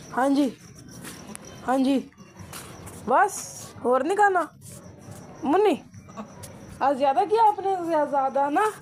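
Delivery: a light mock goat voice telling its owner off; a hint of a fussy goat refusing food; voicing the goat. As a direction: speak for the goat, lightly played. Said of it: "और वो बोल पड़ी".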